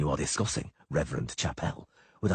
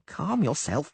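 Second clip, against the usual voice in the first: high halfling, amused; grinning reassurance; 10 semitones higher, slower than usual. A narrator's reading. Halfling Dainty soothing the frightened poet, high and amused. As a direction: say it with a grin. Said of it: "Dainty grinned".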